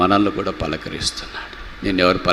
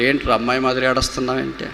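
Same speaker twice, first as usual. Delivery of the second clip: quick, higher-pitched parental chiding; mock scolding; 4 semitones higher, faster than usual. Parent to a crying son, impatient mock scolding. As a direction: chide a boy impatiently. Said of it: "ఇలా తిట్టేవాళ్ళే ఉంటారు".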